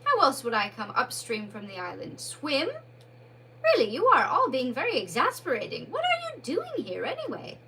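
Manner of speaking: Mole insists on who he is, put out; irritable. Acted. Exasperated Mole.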